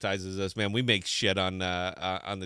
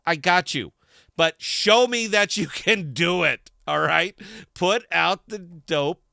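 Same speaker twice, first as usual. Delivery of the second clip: a fired-up harangue at imagined founders; mock scolding rant; 3 semitones higher, 4 dB louder than usual. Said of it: "I've railed way too long".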